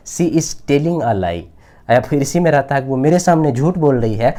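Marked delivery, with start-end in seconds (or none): 0.1-1.4 very slow, each word spaced out; slow dictation. Shown as a demonstration. Teacher giving students the English translation, very slow. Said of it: "इसका translation".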